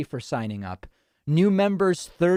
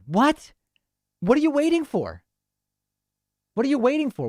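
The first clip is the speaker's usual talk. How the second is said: high-pitched, astonished questioning; incredulous; 10 semitones higher than usual. Real, not acted. Host to caller putting off the vaccine, incredulous. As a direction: demand an answer in real disbelief.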